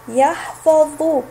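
يحفظ drawn out slowly; teacher modelling يحفظ; slow model word. Shown as a demonstration. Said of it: "لنكتب الحرف الناقص".

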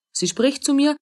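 astonished, voice lifting high; amazed repeat. Acted. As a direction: pitch jumps up in wonder.

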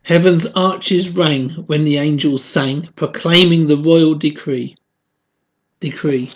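measured spoken hymn verse; hymn read aloud. Acted. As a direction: recite it as devotional poetry.

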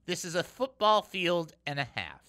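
normal talking voice

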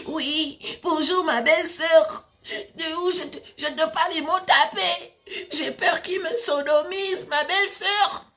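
put-on high, pleading Cameroonian-accented voice. Beaten captive begs his sister-in-law, mock Cameroonian-accented whine. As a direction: imitate a fake white man's Cameroonian accent, whimpering. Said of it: "c'est l'accent camerounais".

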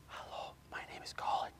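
barely audible whisper; quietest whisper. Shown as a demonstration. Teacher starts stage whisper exercise for pupils, tiniest whisper. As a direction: whisper it so it can hardly be heard. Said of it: "do the quietest whisper you ever can".

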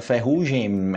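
"ferrugem" closed on a held M; Spanish speaker's "ferrugem" with literal M; mistaken final M. Shown as a demonstration. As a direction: shut the lips at the end of "ferrugem", humming the M. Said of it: "vê o M no final e pensa".

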